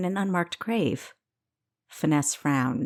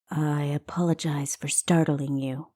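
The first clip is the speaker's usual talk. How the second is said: deep feminine voice; 2 semitones lower than usual. Acted. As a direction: whisper it low, a stranger who means no harm. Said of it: "a deep feminine voice professed".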